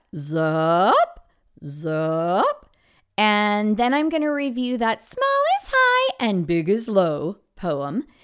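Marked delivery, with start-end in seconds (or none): 0.2-2.7 drawn-out "zoop" with pitch sliding upward. Demonstrating a word for students to echo: rising from low to high. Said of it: "make my voice go from low to high".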